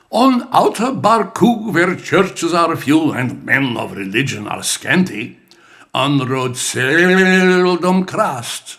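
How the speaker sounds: put-on reading Banjo verse in a mild Latvian accent; light Latvian accent. Dad reading Banjo to the kids, touch of Latvian accent. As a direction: recite it as dad did, a hint of Latvian accent. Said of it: "hearing Banjo with accent".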